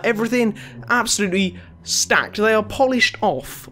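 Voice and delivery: cracking voice mid-phrase. Real, not acted. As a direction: voice cracks on polished off. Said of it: "Oh, wow, voice".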